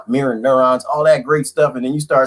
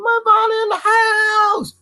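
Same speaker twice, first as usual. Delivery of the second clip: excited greeting; slower than usual. Real, not acted. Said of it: "greeting a viewer".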